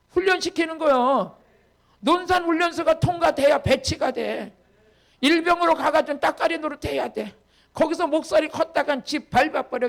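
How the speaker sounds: emphatic preacher in full flow; forceful preaching. Real, not acted. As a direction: drive the lesson home to the congregation.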